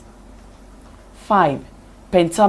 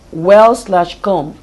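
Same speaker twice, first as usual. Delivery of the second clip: "well" stressed, then "come", split by a spoken "slash"; stressed-unstressed demo; 5 dB louder, much slower than usual. Shown as a demonstration. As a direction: slowly sound out "well slash come" as two separate beats. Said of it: "one stressed syllable is followed by".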